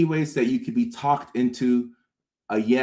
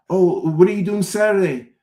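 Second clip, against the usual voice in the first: nosy friend; 7 semitones higher than usual. Retold or imitated. Friend asks about Saturday plans.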